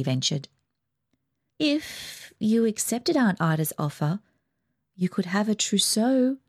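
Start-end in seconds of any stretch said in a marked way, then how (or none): 1.6-6.4 reluctant mother. Acted. Mother reluctantly admitting to the family, hesitant. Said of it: "admitted Mother reluctantly".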